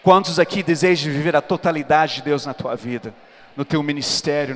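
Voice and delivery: ordinary talk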